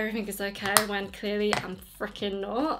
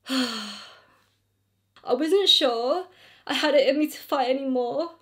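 emotional reading; 2 semitones higher, 4 dB louder than usual. Real, not acted. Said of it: "I'm getting so emotional reading this email".

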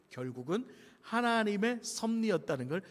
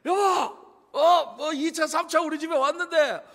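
put-on high, loud drunken shout at the wife; imitating a drama's drunk husband calling for food; 9 semitones higher, 7 dB louder than usual. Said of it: "드라마에서 봐서 흉내만 내는 거예요".

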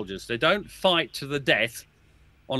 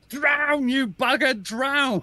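imitated angry rebuke; 11 semitones higher, much slower than usual. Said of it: "Somebody was saying".

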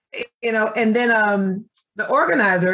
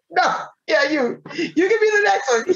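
choked up; 7 semitones higher than usual. Real, not acted. Choked up answering the lady.

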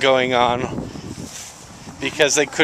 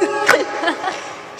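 snorting laughs; 13 semitones higher, 4 dB quieter than usual. Real, not acted. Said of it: "Did you just snort?".

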